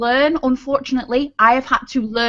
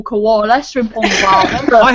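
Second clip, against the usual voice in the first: put-on Australian accent, words drawn out; hammed-up Australian catchphrase voice; 2 semitones lower, slower than usual. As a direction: do a stereotype Aussie. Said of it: "I can understand that".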